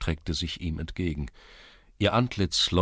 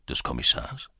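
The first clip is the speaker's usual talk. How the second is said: startled headman; 6 semitones lower than usual. A narrator's reading.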